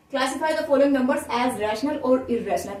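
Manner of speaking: very slow, each English word given its own weight; slow textbook reading. Shown as a demonstration. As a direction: read the question out slowly for the class. Reading out the exercise question.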